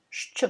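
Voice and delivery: "Sh, Ch" as a hushed hiss into a ch burst; two sounds shown. Shown as a demonstration. Teacher showing the tailed letter, two sounds shown. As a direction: sound out "Sh, Ch" without a full vowel. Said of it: "makes two sounds".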